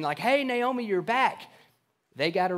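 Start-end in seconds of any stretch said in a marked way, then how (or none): 0.2-1.4 cheerful greeting. Retold or imitated. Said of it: "those people that are coming up and saying".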